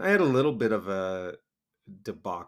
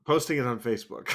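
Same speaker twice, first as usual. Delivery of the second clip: laughing; 2 semitones higher, 3 dB louder, faster than usual. Real, not acted. Laughing while answering.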